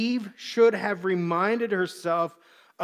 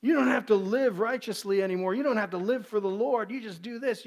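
eager false teacher; 4 semitones higher than usual. Acted. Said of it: "someone comes to us and shares".

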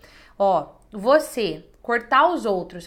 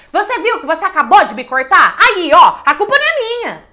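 much higher and louder, accusing; shouting at someone who keeps interrupting; aggressive retort; 7 semitones higher, 13 dB louder than usual. Shown as a demonstration. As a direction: throw the blame back in their face. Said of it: "e não agressiva".

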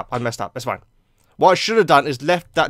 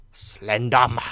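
drawn-out, lower spooky name; spooky put-on voice; 6 semitones lower, 3 dB quieter, slower than usual. Gamer repeats the monster's name, mock-spooky. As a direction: intone it slowly like a creepy announcement.

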